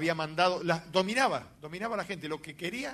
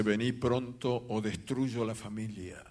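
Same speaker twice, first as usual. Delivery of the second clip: low, slow menacing threat; hoarse manlike woman's voice; 7 semitones lower, 4 dB quieter, slower than usual. Retold or imitated. Possessed woman threatening the pastor by phone, low slow hoarse menace. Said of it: "una voz de mujer en forma ronca, como de hombre".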